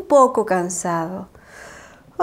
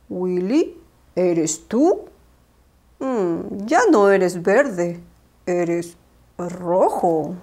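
low, slow wise owl; a gentle old owl, puzzled; 6 semitones lower, much slower than usual. Acted. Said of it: "Don Ramón, el búho".

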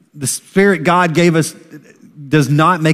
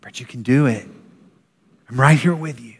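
gentle encouragement; 4 dB quieter, faster than usual. Retold or imitated. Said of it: "the true voice of encouragement".

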